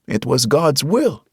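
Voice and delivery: put-on calm preacher, Hispanic accent, unhurried. A narrator's reading. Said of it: "He had a Hispanic accent".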